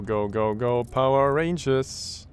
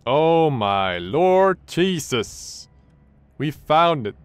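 loud, drawn-out cry of relief; relieved shout; 6 semitones higher, 10 dB louder, much slower than usual. Real, not acted. Gamer finally finding the submarine, loud relieved cry. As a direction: shout it out after an hour of searching.

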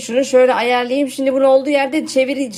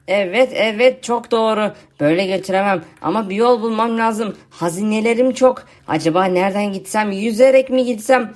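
lightly lowered, lazy zombie voice; zombie friend voice; 4 semitones lower than usual. Acted. YouTuber voicing his zombie friend for viewers, lightly lowered zombie voice.

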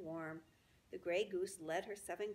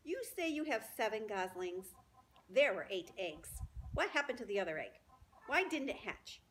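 louder pointed questions; sharp rat; 4 dB louder than usual. Acted. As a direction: press the goose suspiciously. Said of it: "he began in a sharp voice".

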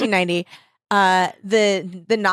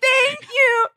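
mock weepy acceptance, much higher; tearful thanks; 4 dB louder than usual. Winners accepting the award, mock tearful thanks.

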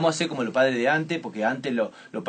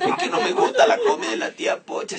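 put-on very high pleading kid; whiny child; 5 dB louder than usual. Child pleads with his mother about aunt's food. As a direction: plead like a little boy, far higher.

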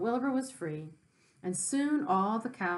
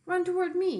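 high, loud honking yell; a gander calling the pig to him; 10 semitones higher, 5 dB louder than usual. Acted. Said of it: "yelled the gander".

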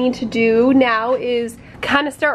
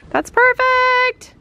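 excited praise; 14 semitones higher, 4 dB louder, much slower than usual. Real, not acted. Praising the drilled hole.

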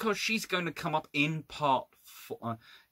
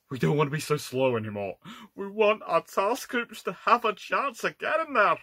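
put-on Scottish accent slipping in, rising higher as it goes; 6 semitones higher than usual. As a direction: let a Scottish accent come through while voicing a demand. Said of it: "Sorry, that's Scottish accent coming through".

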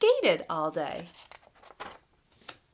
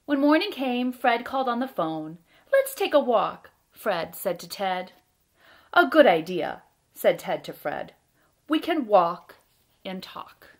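loud, deliberate picture-book narration with pauses; reading to children; 8 dB louder than usual. A narrator's reading. Storyteller reads a bedtime tale about Fred and Ted, lively read-aloud. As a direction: read it out with big, bouncy emphasis.

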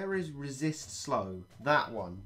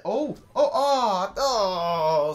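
louder oh oh oh through a laugh; laughing dismay; 6 semitones higher, 7 dB louder, much slower than usual. Real, not acted. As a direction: laugh it off as the unit falls. Unit dies, laughing dismay.

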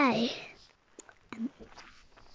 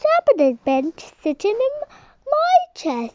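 much higher, fast and loud; squeaky baby bear; 10 semitones higher, 7 dB louder than usual. Acted. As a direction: rush it out in a squeak.

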